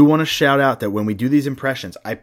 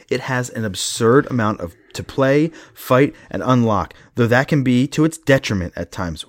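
crisp, louder read-aloud review; 3 dB louder than usual. Acted. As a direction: read it out like a critic's verdict.

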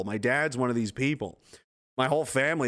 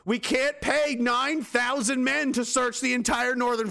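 lightly voiced police bosses; 6 semitones higher than usual. Police bosses calling off the manhunt, lightly voiced. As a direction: play a fretting police chief.

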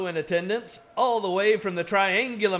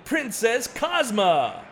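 slow booming fighter introduction; ring announcer intro; 4 semitones higher, 3 dB louder, much slower than usual. Acted. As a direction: draw out the name for the crowd.

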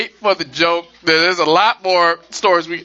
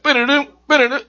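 hummed news jingle; 7 semitones higher, faster than usual. Retold or imitated. Host imitates TV breaking news music, quick hum. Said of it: "when you hear that".

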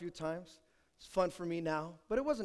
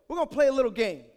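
louder, higher teasing setup; sly invitation; 4 semitones higher, 9 dB louder, much faster than usual. Retold or imitated. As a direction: lure her into the game. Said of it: "I go".

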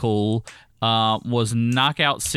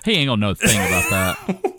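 laughing; 3 semitones lower, 3 dB louder than usual. Real, not acted. Teasing absent friend, laughing.

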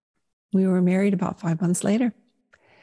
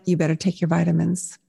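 low, matter-of-fact deadpan reply; practical reply; 3 semitones lower, faster than usual. Retold or imitated. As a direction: imitate a husband's practical, understated answer. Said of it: "He's so practical".

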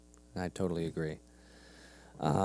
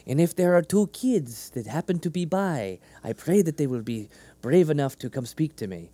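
lightly voiced, higher-pitched playful prayer; mock praying Jesus; 4 semitones higher, 4 dB louder than usual. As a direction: pray aloud, pointedly, for eavesdroppers to hear. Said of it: "as he's praying, and he's like".

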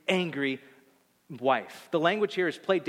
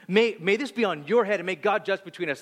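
livid curse; 4 semitones higher, 4 dB louder than usual. Retold or imitated. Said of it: "she's livid".

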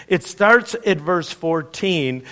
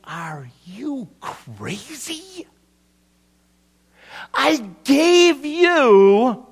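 livid owner; 6 semitones higher, slower than usual. Retold or imitated. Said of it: "The owner is livid".

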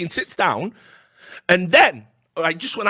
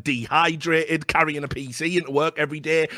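ordinary talk

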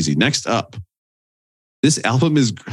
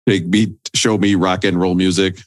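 alien voice; 3 semitones lower than usual. Pretend. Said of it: "could you do your alien impression".

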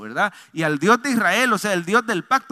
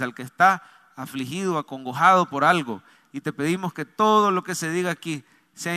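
lower, earnest prayer voice; congregational prayer; 4 semitones lower than usual. Real, not acted. Pastor praying for the congregation before the message, lower prayer voice. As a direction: lead the church in prayer, pitched low.

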